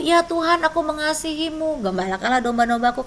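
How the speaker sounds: pressing the reply, a bit urgent; heightened pleading Peter. A narrator's reading. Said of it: "Ditanya lagi yang ketiga".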